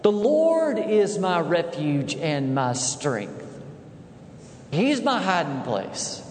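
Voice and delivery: slow, measured psalm quote; slow scripture reading. Acted. Preacher reciting the psalm to the congregation, slow and weighty. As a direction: lay each word down slowly.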